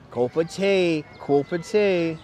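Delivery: drawn-out hammed-up British vowels; mock Cockney accent. Streamer playing British for viewers in a mock Cockney accent. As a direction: savour the words in comic Cockney. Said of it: "Sounds a bit cockney".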